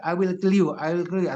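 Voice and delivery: high-pitched mock threat, fired off repeatedly; repeated mock yell. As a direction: imitate yelling it over and over. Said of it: "diteriakin bolak-balik".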